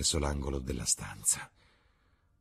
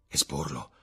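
taken aback. A narrator's reading. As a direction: repeat the word in hushed disbelief. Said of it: "esclamò Dorian Gray".

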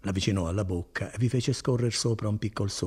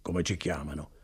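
softer, lower repeat of come ci chiamano; teasing echo; 5 semitones lower, 5 dB quieter than usual. Acted. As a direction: drop it low like a riddle. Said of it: "Ci chiaman Baggiani". (come ci chiamano ripetuto piano, con aria di mistero)

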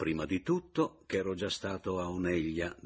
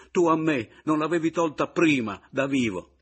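angry retort; 9 semitones higher, 11 dB louder than usual. Acted. Rival retorts loudly.

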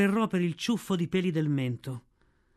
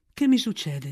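anguished cry; 2 semitones higher, 4 dB louder than usual. A narrator's reading. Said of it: "singhiozzò".

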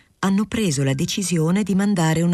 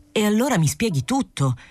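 pleading, voice lifted higher; imploring; 7 semitones higher than usual. A narrator's reading. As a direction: beg him to explain it all. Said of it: "implorò Pereira". (tono implorante)

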